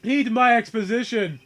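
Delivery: pompous, booming tycoon sneer; haughty villain voice. Acted. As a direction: lord it over a lowly lawyer. Plays Red White, villain.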